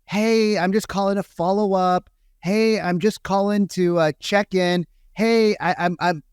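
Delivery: mildly mock a canned follow-up call; stock salesperson opener. Coach mimicking salespeople's stock openers, lightly mock sales voice.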